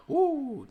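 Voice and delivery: high, loud "woo"; hype whoop. Pretend. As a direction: let out a piercing party whoop. Hump day hype calls.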